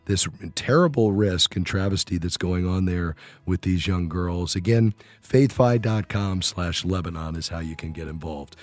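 scratchy, worn voice. Real, not acted. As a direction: speak through a scratchy voice. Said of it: "enduring my, uh, scratchy voice today".

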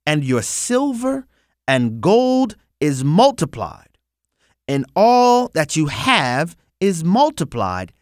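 slow, deliberate reading with emphatic high peaks and long pauses; slow scripture reading. Real, not acted. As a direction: read scripture aloud slowly, phrase by phrase, leaning hard on key words. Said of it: "I'm gonna read it slowly".

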